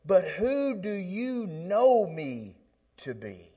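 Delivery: drawn-out, probing question; slow searching question to the listener; slow reworded question. Acted. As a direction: ask it slowly, leaning on know. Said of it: "phrase it like this".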